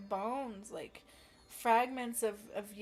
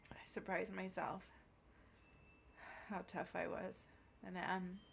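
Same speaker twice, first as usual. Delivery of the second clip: low soft whisper; 5 semitones lower, 11 dB quieter than usual. Real, not acted. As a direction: whisper it, hushed. Quiet whisper after healing.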